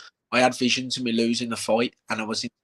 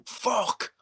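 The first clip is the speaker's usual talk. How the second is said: whispered curse; 9 semitones higher, 5 dB quieter than usual. Retold or imitated. Stranded in snow at night.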